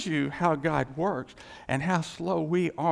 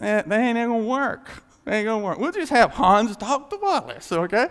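God's voice; 5 semitones higher, 5 dB louder than usual. Retold or imitated. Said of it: "And he said".

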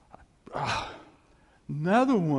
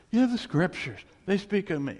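calmer repeat; 5 semitones higher, 3 dB louder than usual. Retold or imitated. Repeats the quote more calmly.

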